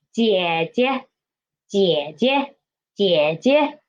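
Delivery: teacher's model 姐姐, light second 姐 lifted. Shown as a demonstration. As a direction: dip on first 姐, step up on the second. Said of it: "so it's higher".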